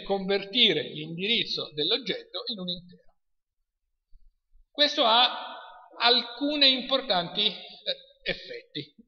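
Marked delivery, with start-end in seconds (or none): 0.0-3.2 measured restatement for the class to follow; slow repeat. Shown as a demonstration. Lecturer repeats a key definition to students, slowly. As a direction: repeat it a little more slowly. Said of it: "lo ripeto lentamente".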